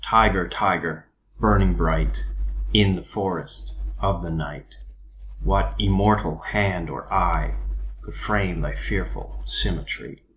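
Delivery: stressed syllables hit on the beat; metered reading. Shown as a demonstration. Teacher reading Blake aloud to show the meter, rhythmic. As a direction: read it like a drumbeat. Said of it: "When I read the poem like that".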